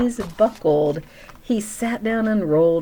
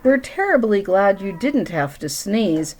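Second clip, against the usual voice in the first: shouted; 2 semitones higher, 4 dB louder than usual. Acted. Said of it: "He sat up and shouted".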